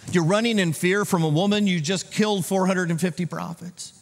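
high, incredulous scolding; mock rebuke. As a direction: act out a disbelieving telling-off. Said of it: "couldn't God have rebuked him".

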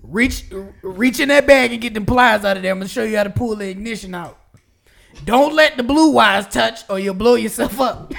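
mock criminal dad. Plays criminal dad instructing his child.

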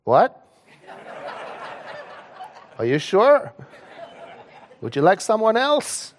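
can't believe the praise she just got; incredulous disbelief. Retold or imitated. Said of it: "I stopped myself from saying".

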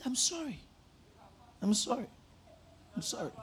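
soft, small, mock-humble sorry; mock meek apology. Preacher mocking his own fake apology to a rude caller, meek and soft. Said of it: "so I said".

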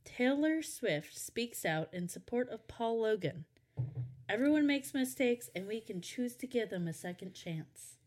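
measured mock newsreader delivery; news headline read. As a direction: announce it like a headline.

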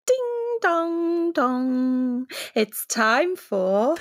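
slow, drawn-out announcer jingle; game show host. Pretend. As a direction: ring it in like a TV host. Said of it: "That actually sounded like a game show".

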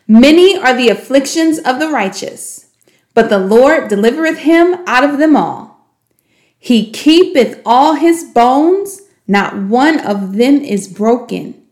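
measured, slowing reading of scripture; scripture recitation. Shown as a demonstration. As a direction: recite it like a memory verse, slowing at the end.

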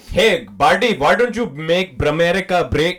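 put-on Indian-accented buddy routine; mock Indian-accented pitch; hammy Indian accent. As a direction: lay on the Indian accent, tripping on consonants. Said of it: "Indian Mister Freeze".

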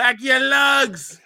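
high, slow mock Boston accent; old Boston lady. Mocking the sponsor's shoes, old Boston lady accent. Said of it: "some shit an old Boston white lady would say".

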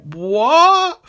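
high, drawn-out puzzled question; mock bafflement, pitched high; Spider-Man. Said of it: "And he's like".

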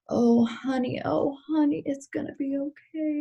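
put-on high, soft, soothing Texas accent; Southern Texas woman. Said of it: "she's this Southern Texas woman".

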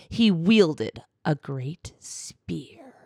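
slow, grave trailer narration; epic fantasy narrator. A narrator's reading. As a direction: read it like an epic movie trailer. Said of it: "like if a movie trailer narrator read that".

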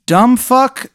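high, loud mocking sneer of a bully; bully taunt. Bully sneering at the player he once teased.

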